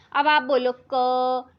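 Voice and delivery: क said short and sharp, at once; quick short ka. Shown as a demonstration. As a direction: snap the क out in an instant. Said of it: "एकदम से बोल देते हैं हम". (क को एकदम झट से बोलना)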